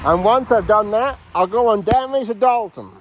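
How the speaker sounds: a light, jokey Australian voice; Australian accent. Acted. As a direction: play a comic Aussie bushman. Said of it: "I am Australian".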